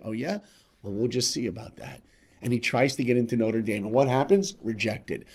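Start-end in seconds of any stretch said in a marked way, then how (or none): 0.0-2.0 defiant. Retold or imitated. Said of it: "You know what Rudy Rudiger said?".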